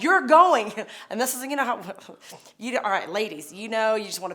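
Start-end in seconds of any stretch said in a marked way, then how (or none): 0.0-0.7 loud, higher, bossy command; firm order. Retold or imitated. Wife retelling how she ordered her drunk husband up, loud and fierce. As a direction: put your foot down hard.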